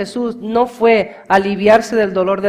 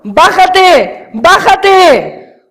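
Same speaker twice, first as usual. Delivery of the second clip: louder, higher jeering "Bájate, bájate"; mocking taunt; 11 semitones higher, 11 dB louder, much slower than usual. Preacher voicing scoffers who taunt Jesus, mocking and loud. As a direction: taunt him like the scoffers at the cross. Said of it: "se burlaron de él diciendo".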